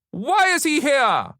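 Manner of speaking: loud, high, slow accusation; vengeful demand. A narrator's reading. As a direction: turn on them vengefully, drawing out each word. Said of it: "She turned vengefully".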